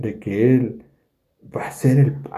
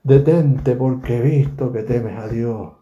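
acted dialogue. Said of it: "y él dice".

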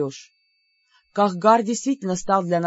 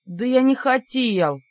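exhausted; 4 semitones higher, slower than usual. Acted. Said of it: "измученно возразил Бер".

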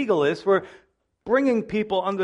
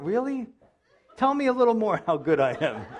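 fishing for praise; 3 semitones higher than usual. Retold or imitated. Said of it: "fishing for praise".

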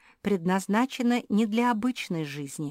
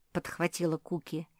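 usual speaking voice

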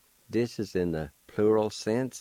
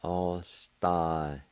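slow demo; much slower than usual. Shown as a demonstration. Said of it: "and it's pronounced like this".

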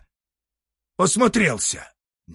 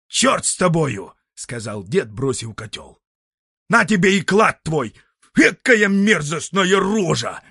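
exasperated; 5 semitones higher, 5 dB louder than usual. Acted. Grandfather gives up in fright.

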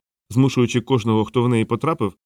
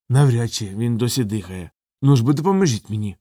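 urgent character voice. A narrator's reading. Nobby urging help with Vimes.

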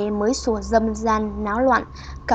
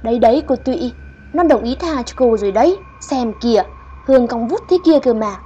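reassuring; 5 dB louder, faster than usual. Acted. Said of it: "giọng trấn an".

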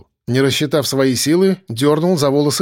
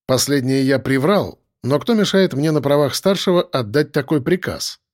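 ordinary delivery, nothing marked

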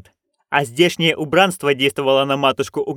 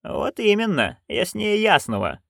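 dry agreement; 6 semitones higher, 3 dB quieter than usual. Acted. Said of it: "кивнула матушка".

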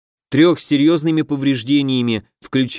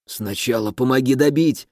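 gurgling. Acted. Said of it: "пробулькал воин".

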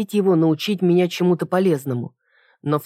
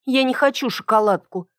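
higher-pitched petulant brush-off; capricious; 6 semitones higher than usual. A narrator's reading. Heroine refusing chocolate from her servant, capriciously. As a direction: wave it away like a capricious girl. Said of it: "капризно отмахнулась я".

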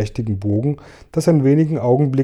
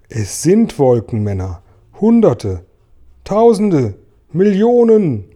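each word higher and louder, escalating panic; mounting alarm; 7 semitones higher, 6 dB louder, slower than usual. A narrator's reading. Character spots hordes of cloud men, escalating alarm. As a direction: build from firm statement to high, loud cries.

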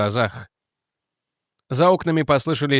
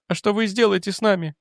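higher, breathless confession; distraught young woman; 8 semitones higher than usual. Acted. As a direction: spill it out in distress. Jennet voiced higher.

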